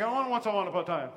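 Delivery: quick, laughing I don't want a story; impatient mock prayer. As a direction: rush it like an impatient believer. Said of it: "You're like".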